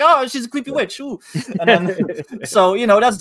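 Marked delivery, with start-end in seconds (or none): 0.0-1.2 high cackling witch; creepy witch voice. Retold or imitated. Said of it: "that creepy witch voice".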